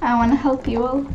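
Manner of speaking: softly spoken, understated; soft offer. Pretend. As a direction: offer help in a small voice. First, soft take.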